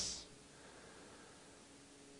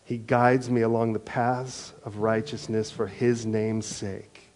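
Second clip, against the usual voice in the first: responsive liturgy reading; slower than usual. Acted. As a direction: lead the psalm, easing into calm. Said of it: "can we practice a little liturgy here".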